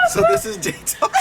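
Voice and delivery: mock host intro.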